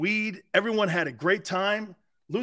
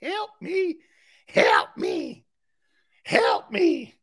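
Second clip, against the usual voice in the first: high, crying help me, much higher; imitating Cuba Gooding; 12 semitones higher, much slower than usual. Imitating Cuba Gooding begging Jerry, high and crying. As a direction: squeal it like a sobbing actor. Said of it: "Cuba Gooding starts going".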